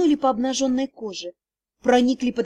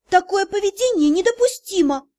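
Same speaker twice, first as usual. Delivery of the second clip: higher, louder prim rebuke; indignant scolding; 6 semitones higher, 3 dB louder than usual. A narrator's reading. Heroine rebuking Rian, indignant and higher. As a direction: scold him primly.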